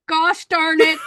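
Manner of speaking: a hammed-up indignant outburst; mock outraged exclamation. Mocking the government's scolding tone.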